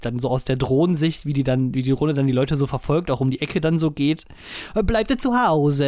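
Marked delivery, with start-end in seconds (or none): 4.7-5.9 put-on slow, high Italian-accented German; drawn-out Italian-accented scolding. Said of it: "Deutsch mit italienischem Akzent".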